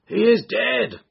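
high, loud cry from the crowd. A narrator's reading. Crowd answers the lady about the injured man, crying out. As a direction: call it out high over the street. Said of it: "cried several voices".

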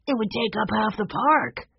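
mildly dismayed at the idea. A narrator's reading. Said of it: "Henry said in dismay".

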